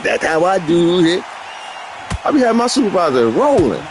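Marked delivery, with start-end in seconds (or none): 0.0-1.2 lisping country drawl. Retold or imitated. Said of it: "That's what I said".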